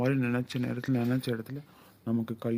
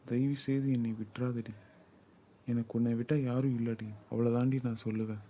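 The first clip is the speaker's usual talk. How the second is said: soft pleading; 4 dB quieter than usual. Acted. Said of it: "உன்னை கெஞ்சி தான் கேட்டுருக்கேன்".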